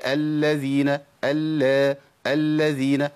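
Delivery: الذين with both lams held and shown; clear doubled lam. Shown as a demonstration. Teacher shows the correct doubling. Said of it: "واظهار اللامين لما تشدد".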